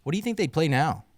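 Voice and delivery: high-pitched sports pundit impression; Bill Simmons. Shown as a demonstration. Podcaster asking co-hosts a question, in a high put-on impression. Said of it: "Here's my Bill Simmons impression".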